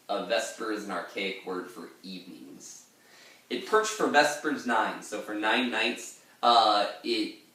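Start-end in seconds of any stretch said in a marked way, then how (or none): 3.5-5.0 Ancient Mariner voice. Acted. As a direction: intone it like the old mariner. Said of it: "that's the end of the Ancient Mariner saying that".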